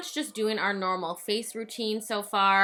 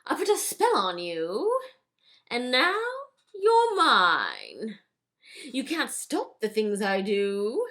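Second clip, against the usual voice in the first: lightly hammed-up stage witch patter; drawn-out, teasing showy delivery; theatrical witch performer; slower than usual. Winifred thanks Max for the introduction, theatrical.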